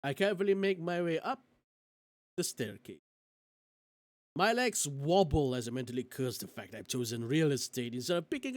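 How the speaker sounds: measured storytelling with lifted phrases; story narration. A narrator's reading. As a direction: read it aloud like an audiobook. Reads story aloud.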